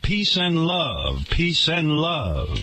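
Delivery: slow, dreamy mock hippie drawl; a hint of a blissed-out beach guru, slowed down; lightly mocking mellow guru. Mimics Russell Simmons strolling on beach.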